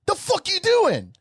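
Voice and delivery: a stranger snapping at Preacher for walking through his photo; instant rage. Retold or imitated. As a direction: go from zero to ten at once. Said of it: "Just on ten immediately".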